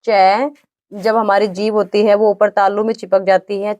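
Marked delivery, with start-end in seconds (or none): 0.1-0.5 clear, pressed च against the palate; च demonstrated. Shown as a demonstration. Teacher showing students the palatal sound, crisp च. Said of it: "इसको बोल के देखो".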